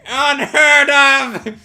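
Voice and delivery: very slow, drawn-out high shout; escalated courtroom outrage; outraged bellow. Acted. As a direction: stretch "Unheard of" into a loud cry. Objection repeated, escalated.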